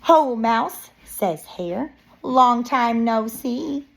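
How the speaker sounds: put-on expressive read-aloud to young children; picture-book narration. Reading a bear story to children, lively narration. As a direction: read it like story time, lilting. Reads hare's greeting in story.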